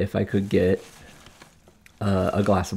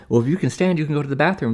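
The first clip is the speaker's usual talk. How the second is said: mocking mean nurse; 7 semitones higher, faster than usual.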